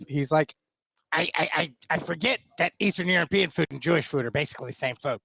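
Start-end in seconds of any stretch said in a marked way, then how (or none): 1.1-5.2 doing a friend's voice; Luby impression. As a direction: imitate a buddy, hesitant start. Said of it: "Pretty good Luby impression there".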